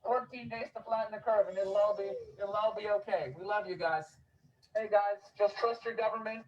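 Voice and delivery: syrupy sarcastic reassurance to the crowd; sarcastic preacher soothing the public; mock reassuring. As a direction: lay on the fake sincerity like a friendly official. Sarcastic street speech mocking authority.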